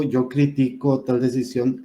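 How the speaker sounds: critico as cri-TI-co inside the example; stress on middle syllable. Shown as a demonstration. Teacher using the verb in a sample sentence, critico stressed on TI. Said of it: "es una palabra grave".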